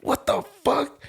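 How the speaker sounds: drawn-out high incredulous cry; slow disbelief. Retold or imitated. Stunned by the Marine's quick promotion, slow high disbelief. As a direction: let the disbelief stretch out. Retells his disbelief again.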